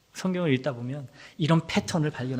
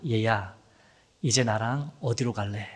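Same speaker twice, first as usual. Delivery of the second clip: put-on lower, tender question to a child; gentle fatherly call; 6 semitones lower than usual. God gently asking his child, tender and lower. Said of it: "묻고 계십니다".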